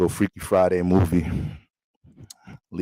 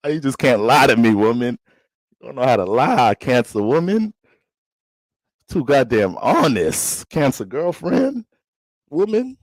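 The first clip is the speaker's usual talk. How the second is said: put-on louder, playful scolding of his girlfriend; teasing boyfriend; 3 semitones higher, 3 dB louder than usual. Boyfriend to his Cancer girlfriend, loud playful teasing. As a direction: tease her fondly for being too honest.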